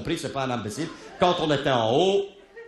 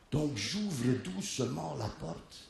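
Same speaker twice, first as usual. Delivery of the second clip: softer, slow hushed telling; lower, slow suspense; quiet; 4 semitones lower, 10 dB quieter, slower than usual. Retold or imitated. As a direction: creep up to the door. Sneaking up to the cabin.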